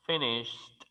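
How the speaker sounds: finished ending in SH-T; finished as "finisht"; final T sound. Shown as a demonstration. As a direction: put a T after the SH of finished. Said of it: "se finalizaría con una T".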